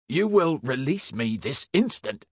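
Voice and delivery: high-pitched indignant demand; shouting. A narrator's reading. Inspector held by constables, shouting indignantly. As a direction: raise your voice to demand release. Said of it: "shouted Field".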